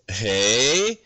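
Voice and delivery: a lightly voiced airy young person, drifting up at the end; mock millennial chatter. Shown as a demonstration. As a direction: play a breezy youngster chatting about the mall. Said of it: "let me try".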